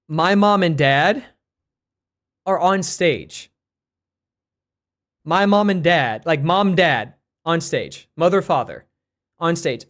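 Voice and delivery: slow, over-clear words for a non-English speaker; slow careful explaining. Retold or imitated. Telling the Italian lady slowly about parents on stage, slow and careful. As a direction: spell it out slowly so she understands.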